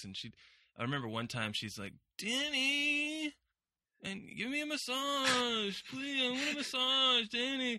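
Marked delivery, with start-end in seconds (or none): 2.2-7.8 acted, very high, slow, whiny pleading voice. Retelling a story, the speaker imitates her: imitating her whiny tone. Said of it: "she would get this really whiny tone of voice".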